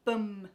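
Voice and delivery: BUM as an unstressed buhm with held m; schwa ending. Shown as a demonstration. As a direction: reduce the vowel in BUM to uh. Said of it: "so it becomes".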